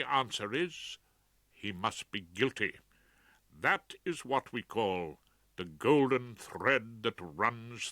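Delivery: slow, grave and measured; solemn. Acted. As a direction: lay it down solemnly. Solemn direction to jury.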